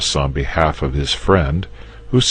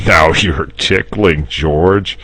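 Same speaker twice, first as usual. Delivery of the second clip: slow, coy and a little giggly; 3 semitones higher, 5 dB louder, slower than usual. Acted. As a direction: play it shy. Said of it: "said the dragon coyly".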